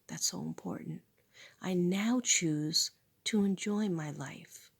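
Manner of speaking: slow, hushed affirmations to herself; affirmation recital. Real, not acted. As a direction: recite each line like a vow.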